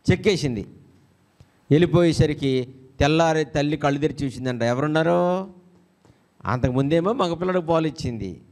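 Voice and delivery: normal talking voice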